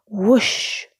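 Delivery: high, loud whoop while flying; scream. A narrator's reading. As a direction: yell mid-air in a stunt. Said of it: "Mater screamed".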